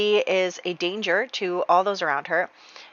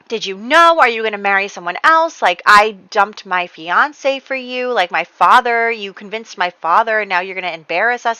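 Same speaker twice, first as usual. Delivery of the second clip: upset accusing retelling, a touch louder; acted-out indignant confrontation, raised a little; worked up; 2 semitones higher, 4 dB louder than usual. Upset fiancée confronting him about marrying someone else, mildly worked up. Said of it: "everybody's getting worked up".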